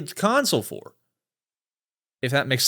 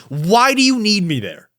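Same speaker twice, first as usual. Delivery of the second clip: only a little higher, firm demand; calmer heated question; 4 semitones higher than usual. Real, not acted. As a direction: ask again, more controlled. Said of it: "I'm actually fired up".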